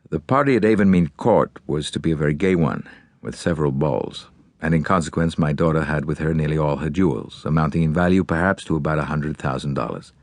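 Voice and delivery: low-set voice of a forceful American father; American magnate. Acted. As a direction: play a grieving, determined businessman giving orders. Voices Halliday's account.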